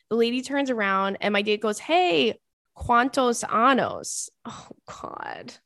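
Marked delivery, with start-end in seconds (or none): 1.8-4.3 higher mock shout, Spanish words drawn out slowly; mock yelling. Date shouting bad Spanish at the rose lady, slow mock yell. 4.5-5.5 whispered, mortified oh God. Real, not acted. Mortified at the Spanish blunder, a whispered oh God.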